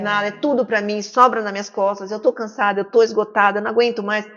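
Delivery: mildly fed-up, piling up grievances; lightly acted weary reproach, pressing on without a break; exasperated complaint. Overburdened partner blaming the other, mildly exasperated complaint. Acts out an exhausted spouse's complaint.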